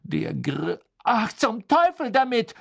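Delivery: exasperated, loud and high; loud outburst. Acted. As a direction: burst out, fed up. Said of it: "sagte Hermine laut".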